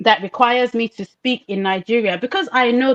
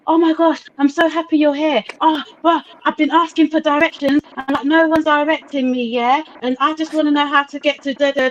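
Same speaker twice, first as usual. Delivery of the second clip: a light mock British tourist, a bit higher and gushing; imitating British tourist; 4 semitones higher than usual. Tourist on a Mombasa beach begging directions, mock British accent. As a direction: lightly play the lost Brit asking locals for directions. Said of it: "speaking exactly like that to the locals".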